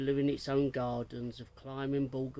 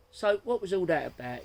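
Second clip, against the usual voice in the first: curious question; 5 semitones higher, 7 dB louder than usual. Acted. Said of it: "inquired Louise".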